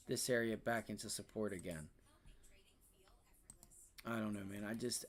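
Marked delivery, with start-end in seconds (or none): 4.0-5.0 resigned whisper. Real, not acted. Resigned aside.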